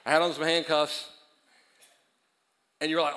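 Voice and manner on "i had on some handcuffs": louder, punchy restatement; loud emphatic repeat. Real, not acted. Preacher resuming his handcuff scenario, loud and emphatic. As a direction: announce it loudly to the room.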